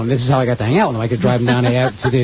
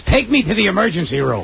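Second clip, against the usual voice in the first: Gilbert Gottfried impression; 4 semitones higher than usual. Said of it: "that's a great Gilbert Gottfried impression".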